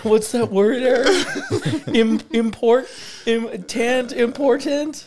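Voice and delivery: important broken up as im, import, tant, said slowly and high through laughter; sounding out words. Shown as a demonstration. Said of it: "Sound out the words".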